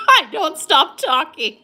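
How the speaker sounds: high loud laugh through the words; laughing loudly. Real, not acted. Laughing at her own talkativeness.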